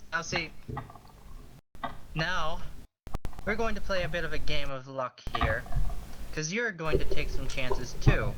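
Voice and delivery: menacing threat. Acted. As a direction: lean in and threaten him.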